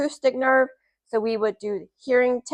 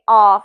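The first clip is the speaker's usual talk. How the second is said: demonstrating aah; 11 dB louder than usual. Shown as a demonstration. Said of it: "So say".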